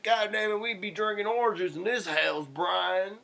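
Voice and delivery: high, loud mock-scolding mother; exasperated mom. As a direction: imitate a mom telling off her son. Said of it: "She's like".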